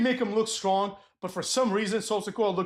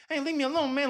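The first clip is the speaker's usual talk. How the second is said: high pouty whine, mocking him; Jey Uso; 7 semitones higher than usual. Wrestler brushing off the interviewer, mock pouting. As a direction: whine it like a sulking kid. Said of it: "being a pouty little bitch".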